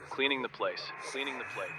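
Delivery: eerie echo sinking into silence; fading echo. Acted. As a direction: let it trail off like a looping glitch. Voicemail line repeats like glitch.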